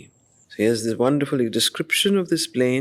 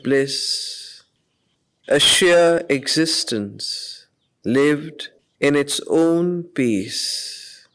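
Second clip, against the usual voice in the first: poem recitation. Acted. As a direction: let each line hang in the silence. Reciting Savitri verse before commentary.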